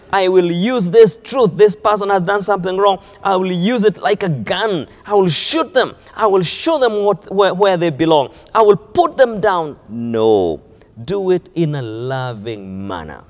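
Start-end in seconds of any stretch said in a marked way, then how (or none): 0.1-9.8 mock aggressive rebuke. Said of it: "Don't go to say".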